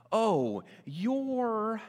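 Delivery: loud acted jab, drawn out; mock fight outburst. Someone in a fight using this tool, loud mock outburst. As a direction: launch a loud accusation, then hang on it.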